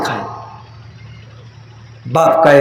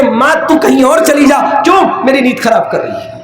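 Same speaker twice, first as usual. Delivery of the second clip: a mock snap at the old mother, slightly higher; irritated son; 4 semitones higher than usual. A son woken at night snapping at his coughing mother, mildly irritated. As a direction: play the annoyed son woken by her coughing. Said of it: "آپ جا کر کے بول دیں گے".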